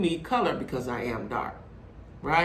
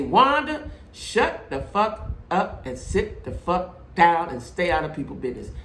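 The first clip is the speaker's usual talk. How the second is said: slow, emphatic dressing-down, word by word; confrontational telling-off. Acted. Imagined confronter tells Wanda off for meddling, slow and firm. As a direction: lay down the law to her face, slowly. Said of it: "stand ten toes down right in her face and say".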